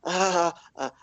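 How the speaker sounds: high, curious gnome voice; a gnome poking at a random book. Acted. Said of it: "He's like".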